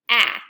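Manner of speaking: "ah" said loud and open; loud short a. Shown as a demonstration. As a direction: call out the short "ah". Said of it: "start with the sound".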